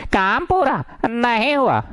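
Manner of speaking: drilled catchphrase. Shown as a demonstration. Teacher drilling the rule into students, in exaggerated singsong. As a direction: chant the rule in two big falling swoops.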